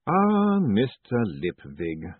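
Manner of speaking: slow, dry and weary; dry patrician. Acted. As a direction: say it with cool regret. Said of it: "said Lord Vetinari".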